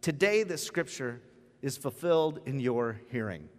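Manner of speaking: solemn reading. Retold or imitated. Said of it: "he's like".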